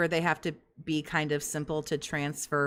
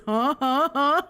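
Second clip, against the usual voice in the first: mock huh; 7 semitones higher, 4 dB louder than usual. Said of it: "it says".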